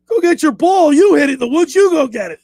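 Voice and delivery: hammed-up telling-off; mock indignant. Caddy refusing to fetch the golfer's ball, mock angry.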